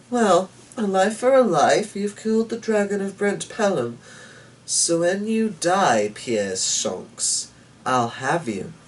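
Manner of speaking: a small devil calmly claiming his due; sinister little man. A narrator's reading. The little man tells Shonks he'll take him, sinister and high.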